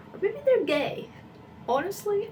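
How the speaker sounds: high teasing aside; playful high aside. Real, not acted. Joking aside.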